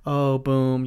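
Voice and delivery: bright, high, loud customer chat; friendly bartender greeting. Retold or imitated. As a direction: greet a regular with cheer. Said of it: "I would talk to people like".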